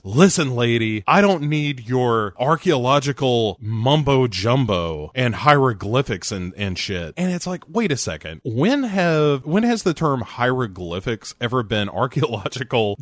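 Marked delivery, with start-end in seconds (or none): 0.0-7.1 lightly gruff Nick Nolte voice; a hint of a grumbling Nick Nolte; Nick Nolte impression. Quoting Nick, later called Nolte impression.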